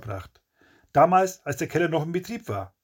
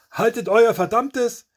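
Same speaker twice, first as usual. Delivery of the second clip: high, loud, drawn-out shout; slow, raised-voice angry command; angry outburst; 8 semitones higher, 5 dB louder, slower than usual. A narrator's reading. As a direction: shout them down furiously. Coughing attacker explodes at mockers.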